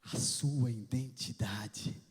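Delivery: slow, breathy whispered repeat; whispered emphasis on identity. Acted. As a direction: lean in and whisper the word.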